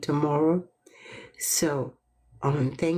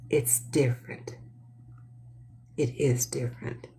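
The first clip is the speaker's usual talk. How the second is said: whisper; 4 semitones lower, 5 dB quieter than usual. Shown as a demonstration. Repeating phrases softly.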